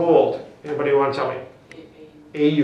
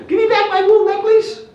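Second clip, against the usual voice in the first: high, loud mock yell after a thief; robbed man shouting; 8 dB louder than usual. Robbed man yells after fleeing chain thief, acted high shout. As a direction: holler it out in a pitched-up acted shout. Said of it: "the big black guy goes".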